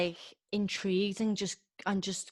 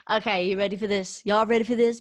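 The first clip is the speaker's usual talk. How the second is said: fast, louder build into the countdown; hype-man intro; 6 dB louder, faster than usual. Pretend. Host kicking off the top ten, hyping up the listener. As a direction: pump up the crowd.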